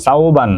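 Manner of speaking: সাওবান in two even beats, "sau-ban"; two syllables. Shown as a demonstration. Teacher showing a name is double syllable, সাওবান sounded out in two beats. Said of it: "ওটা double syllable".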